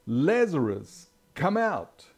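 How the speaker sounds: drawn-out, high, loud call of the name; loud shout. Acted. Jesus calling the dead man out of his tomb, a slow loud shout. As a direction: call him out of the tomb with full force. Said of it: "Then Jesus shouted".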